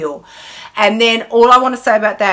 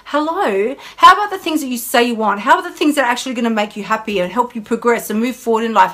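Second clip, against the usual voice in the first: sensible inner voice; 3 semitones higher than usual. Retold or imitated. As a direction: nudge like a reasonable inner voice. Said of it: "part of our brain goes".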